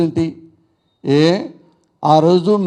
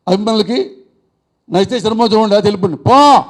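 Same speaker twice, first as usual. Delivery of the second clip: retold shout. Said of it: "ఇదే కంఠంతో గట్టిగా అరిచాడు".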